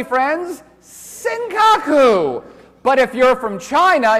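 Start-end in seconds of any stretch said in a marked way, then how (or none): 0.8-2.4 Senkaku stretched very slowly, sen-ka-ku, for the room to echo; teacher chanting Senkaku slowly with the class; drawn-out pronunciation. Shown as a demonstration. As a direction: lead the class through Senkaku syllable by syllable. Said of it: "Say it along with me".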